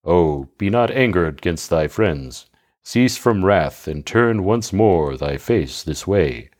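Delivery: soothing plea. Acted. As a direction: gently talk down an angry bride. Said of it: "tried to check his young bride's angry humour".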